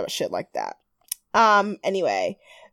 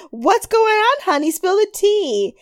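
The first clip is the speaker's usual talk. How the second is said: higher, sing-song mock sass; mock sassy host; 9 semitones higher than usual. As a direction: coax the gossip out, hammed up. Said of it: "Stacy's like".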